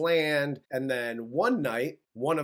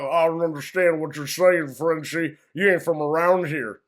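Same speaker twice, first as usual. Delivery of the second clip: louder mock redneck sneer; xenophobic hick; 5 dB louder than usual. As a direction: sneer at the foreigner like a small-town bully. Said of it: "he's like".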